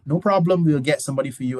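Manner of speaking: bright, helpful agent voice; chirpy customer-service assistant; friendly AI agent. Retold or imitated. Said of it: "you'll be talking and be saying".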